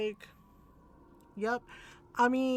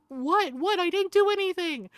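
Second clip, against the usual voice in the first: higher-pitched, rising panicked protest; mock panic; 5 semitones higher, 4 dB louder than usual. Doctor cornered by tita, hammed-up panic. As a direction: imitate a flustered man pleading innocence. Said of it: "he actually panicked".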